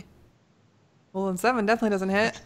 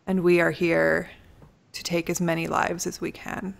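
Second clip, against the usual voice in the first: villain voice; 4 semitones lower, 5 dB louder than usual. Acted. DM voices villain threatening party.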